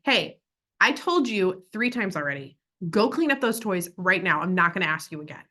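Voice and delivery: firm scolding, last warning; aggressive. Shown as a demonstration. Parent ordering child to clean toys, mild aggressive tone. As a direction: lay down the law to the child. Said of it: "Aggressive would be".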